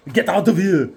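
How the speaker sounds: loud, high mock alarm; panicked crew shout. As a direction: holler like a comic crew going down. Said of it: "They're like".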